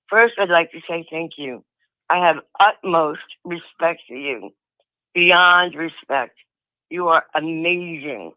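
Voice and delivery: hoarse from being sick. Real, not acted. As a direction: talk through a sore throat. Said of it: "My throat, I've been sick, so it's hard to talk".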